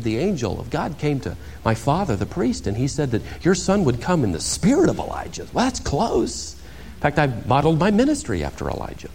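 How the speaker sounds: lightly voiced self-important John; name-drop modestly; a hint of boasting. Imagined John explaining himself to the priests, mildly boastful. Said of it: "He could have answered".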